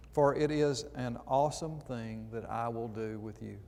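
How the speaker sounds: measured, solemn Bible reading; scripture reading. Acted. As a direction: read the verses like a preacher from the pulpit. Reads scripture aloud.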